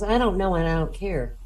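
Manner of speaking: mildly dismissive, tossed-off answer; offhand dismissal. Acted. Teacher busy grading papers, mock indifferent. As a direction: brush the question off lightly.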